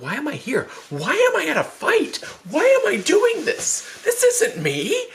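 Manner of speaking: high, rising panicked self-questioning. Retold or imitated. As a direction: wail it in mock panic. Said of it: "like, panic".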